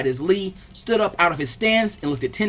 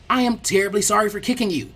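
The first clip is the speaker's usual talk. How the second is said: frantic; 4 semitones higher than usual. Acted. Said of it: "the green guy said frantically".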